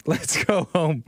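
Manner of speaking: slow, laughing mock plea; sarcastic. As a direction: drag out let's go home with a laugh. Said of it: "I'm being ridiculously sarcastic".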